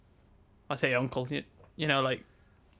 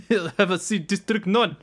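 put-on South African accent; 4 semitones higher than usual. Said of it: "That's your South African".

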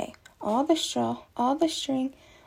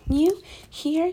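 high, startled question; gasping in surprise; 5 semitones higher, 3 dB louder than usual. A narrator's reading. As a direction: caught off guard, blurt it out. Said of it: "gasped Mister Bird".

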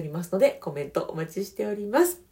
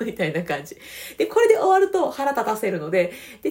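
normal talking voice

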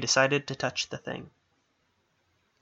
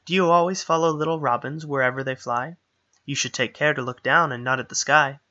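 sing-songy; 4 dB louder than usual. Acted. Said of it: "in a sing-songy voice".

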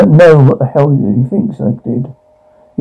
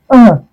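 pained cry; 7 semitones higher than usual. Acted. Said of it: "Winces in pain".

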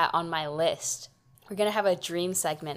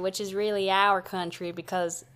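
put-on Southern twang; Southern accent; 4 dB louder than usual. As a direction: explain it as a mock Southerner. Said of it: "talks in a southern accent".

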